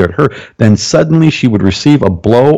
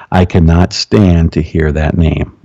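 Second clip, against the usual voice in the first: lower, slow spirit voice speaking through the woman; slow, lowered possessed voice; deep demon voice; 4 semitones lower, slower than usual. Retold or imitated. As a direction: drag it out low like a demon. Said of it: "Probably in that tone with my deep one".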